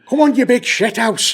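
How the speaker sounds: high-pitched mock Mancunian challenge; Mancunian accent. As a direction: goad someone in hammed-up Manchester accent. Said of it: "That's better".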